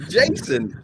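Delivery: squeaked high disbelief; astonished. Retold or imitated. Retelling meeting a boxing star, high surprised squeak. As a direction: replay the jolt of recognition.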